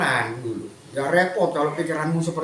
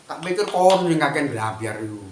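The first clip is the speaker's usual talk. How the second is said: retort; 4 dB louder than usual. Real, not acted. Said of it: "Tak jawab itu".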